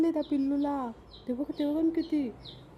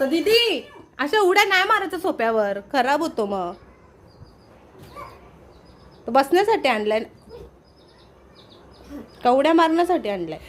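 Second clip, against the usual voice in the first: scolding; 6 dB louder than usual. Real, not acted. Scolding girl jumping on sofa.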